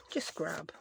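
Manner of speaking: "just grab" whispered to herself, no voice. Real, not acted. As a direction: breathe "just grab" under the breath while searching. Repeats the words in a whisper.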